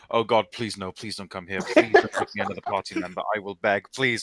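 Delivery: begging, pleading in despair; anguished denial. Acted. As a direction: beg them not to come. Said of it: "roll his eyes and go".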